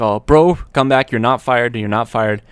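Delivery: loud panicky plea to come back; panicked. Retold or imitated. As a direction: rush it out like you need him back. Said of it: "in a sort of panic".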